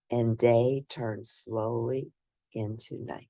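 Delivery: put-on lively read-aloud voice for children; storybook reading. A narrator's reading. Reading a picture book aloud to children, lively storybook narration. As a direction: bring the bedtime story to life for little listeners.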